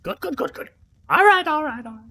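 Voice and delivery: high, loud delighted NPC; pleased NPC. Acted. Mother NPC pleased the player stays, high and loud. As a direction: gush approval, high and loud.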